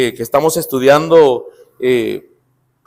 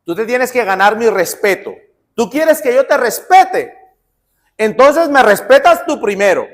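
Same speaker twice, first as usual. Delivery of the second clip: mock demanding; 5 semitones higher than usual. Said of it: "no sé si han escuchado".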